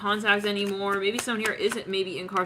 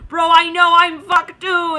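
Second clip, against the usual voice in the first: loud, high, drawn-out comic despair; mock panicked shout; 7 semitones higher, 10 dB louder, slower than usual. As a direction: wail it like you know you're doomed. Acting out panicked doomed people.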